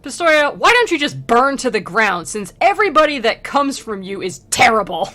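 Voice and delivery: mock scolding. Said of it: "he's like".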